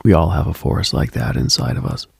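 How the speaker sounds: ordinary talk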